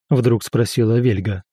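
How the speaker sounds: plain reading voice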